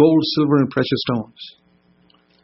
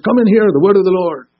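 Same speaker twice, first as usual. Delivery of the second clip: prophet proclaiming; 5 semitones higher, 3 dB louder than usual. Retold or imitated. Old Testament prophet contrasted with New.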